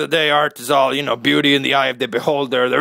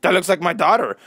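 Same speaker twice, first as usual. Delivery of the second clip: amazed; 5 semitones higher than usual. Retold or imitated. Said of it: "the last guy's like".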